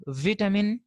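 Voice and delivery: vitamin as "VIT-amin"; short i in vitamin; British pronunciation. Shown as a demonstration. Teacher showing the British people's form, vitamin as "VIT-amin". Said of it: "British people".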